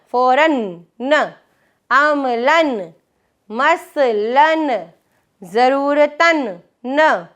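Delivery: फ़ौरन, अमलन, मसलन said slowly with the end न drawn out; stretched tanween demo. Shown as a demonstration. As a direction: lean on the final न of each word. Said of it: "एंड पर आवाज़ आती है न". (तनवीन की आवाज़ आख़िर में खींचकर)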